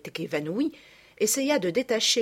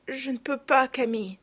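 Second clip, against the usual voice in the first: weak trembling voice; 5 semitones higher than usual. A narrator's reading. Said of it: "d'une voix faible et tremblante".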